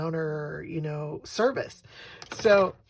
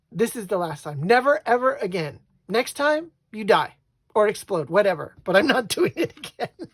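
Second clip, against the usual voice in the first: loud, lightly acted refusal with amusement; mock exasperated ultimatum; 2 semitones higher, 6 dB louder than usual. Husband swearing off errands to wife, mock exasperated. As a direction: lay down the law while half amused.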